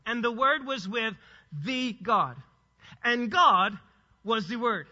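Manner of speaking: phrase by phrase, "the" as a full "thee", GOD punched loud; slow, deliberate stress on "the God" and "And God"; measured word-order demonstration. Shown as a demonstration. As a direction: set "the God" and "And God" apart with pauses. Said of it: "Follow this order with me".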